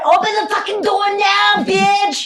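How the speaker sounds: high, loud shout with a laugh; angry shout. Retold or imitated. Shouting at the secretary behind the locked door. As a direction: scream it at the door, half laughing.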